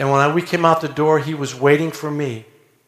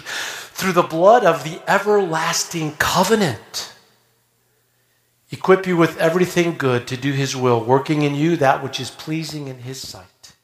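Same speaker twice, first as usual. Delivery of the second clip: measured, solemn blessing over the congregation; benediction. Acted. Pronounces benediction.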